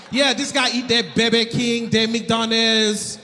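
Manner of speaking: imitated Haitian accent, rattling off a list. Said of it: "he likes to rattle off what he thinks I'm eating".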